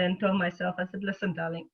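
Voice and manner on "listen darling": lightly voiced loving mother, easing a reluctant child; gentle loving mother. Mother coaxing her tired self to exercise, gentle and kind. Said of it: "very gently, loving compassionate mother".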